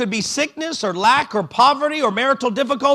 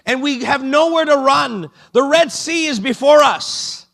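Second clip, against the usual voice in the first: voicing the people's frantic plea, higher and louder; panicked crying out; 5 semitones higher, 4 dB louder than usual. Israelites begging God at the Red Sea, panicked. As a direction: cry out like people trapped at the sea. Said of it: "The people are crying out".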